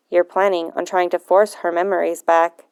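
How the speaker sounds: put-on old man scolding his granddaughter, low and disapproving. Voices grumpy grandfather William.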